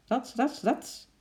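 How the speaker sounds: high, spoken "rats" swishes; swinging swish noises. A narrator's reading. Chimp swinging along the branches, high swishing noises. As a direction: voice each swing as a sound effect.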